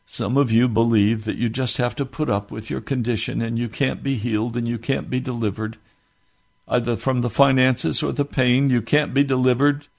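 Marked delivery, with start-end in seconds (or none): 0.0-8.7 tender. Real, not acted. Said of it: "let me say this to you very tenderly".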